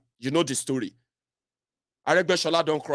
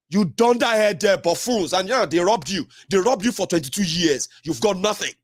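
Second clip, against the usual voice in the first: scornful rebuke; 2 semitones higher than usual. Real, not acted. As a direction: scold them with contempt. Insulting the audience.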